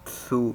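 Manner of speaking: سو said with a little t before the s, like tsu; tsu sound. Shown as a demonstration. Teacher showing how سو gets a t sound first, tsu. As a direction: start سو with a light t, tsu. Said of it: "کیسے؟".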